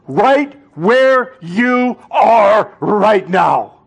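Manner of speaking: voice breaking. Real, not acted. Preacher breaks off, voice cracking.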